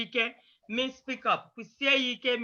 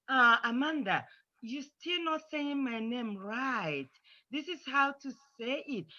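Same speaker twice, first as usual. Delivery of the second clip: softer, patient reminder to a friend; polite correction; 4 dB quieter than usual. Shown as a demonstration. Child correcting friend Amanda once more, polite and patient. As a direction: correct gently and without getting upset. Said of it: "Always try to be polite".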